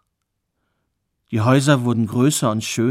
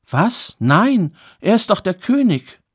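higher, louder cry of disbelief; shocked denial; 6 semitones higher, 4 dB louder than usual. Acted. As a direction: blurt it out as if the idea were unthinkable. Queen is shocked by the suggestion.

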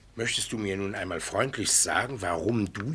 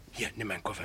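hushed, breathy aside, barely voiced; whisper; 2 semitones lower, 8 dB quieter, faster than usual. Uncle whispers to nephew as the double approaches, hushed. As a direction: whisper it so the stranger won't hear.

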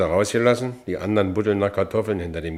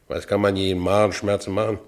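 ordinary delivery

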